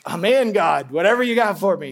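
loud, wholehearted commitment; eager faith. Acted. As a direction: jump in with mild enthusiasm. Voices a day of eager faith.

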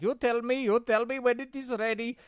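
high, loud, insistent caller imitation; pushy caller voice. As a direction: mimic the impatient scammer, high and loud. Retold caller demanding on phone.

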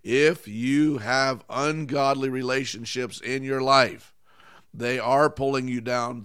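emphatic preacher's repeat, building to a loud life; slow, forceful second telling. Shown as a demonstration. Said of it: "I'll say it again".

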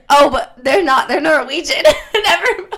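ordinary delivery

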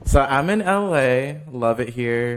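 slow, proud big announcement; milking the applause. Pretend. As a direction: savor the news like a star. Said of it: "Hold your applause".

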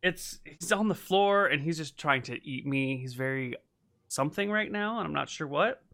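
wrestling a cat while talking; straining to hold a squirming cat; holding down a pet. Real, not acted. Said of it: "he's wrestling with the pussy in his lap".

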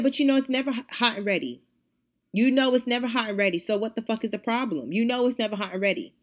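heated, insistent comeback; mildly exasperated retold retort; retold argument. Acted quarrel, speaker retorts.

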